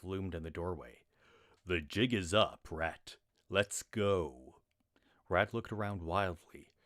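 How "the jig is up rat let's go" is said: gruff arrest. Acted. Corporal arrests the thief.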